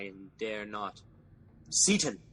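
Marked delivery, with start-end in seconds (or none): 1.7-2.2 loud summoning call, falling at the end. Acted. King summoning his servant, a loud call. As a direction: bellow the servant's name down the hall.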